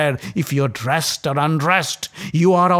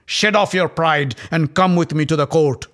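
roaring; 6 semitones higher, 7 dB louder than usual. Acted. Dussasana roaring at Draupadi from her door, loud and gloating. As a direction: roar it from the doorway, gloating. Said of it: "and roared".

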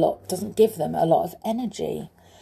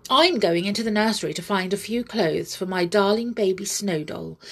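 in a huff; much faster than usual. Acted. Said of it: "said Amelia in a huff".

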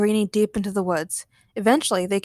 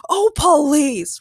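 high, loud exasperation; loud, dismissive scoff; scoffing shout; 6 semitones higher, 5 dB louder than usual. Acted. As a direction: shout it in disbelief. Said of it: "Ray shouted".

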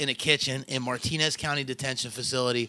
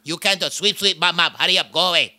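put-on mild Filipino accent; 3 dB louder than usual. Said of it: "He called him black boy".

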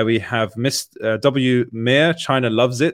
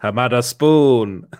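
slow echo of the clip; mimicked catchphrase; 3 dB louder, slower than usual. Host echoing the Hamada Spoon clip, slow mimicry. Echoes the played clip's catchphrase.

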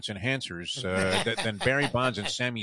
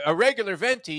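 mimicking a customer; 9 semitones higher, 5 dB louder than usual. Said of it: "when a guy turns around and goes".

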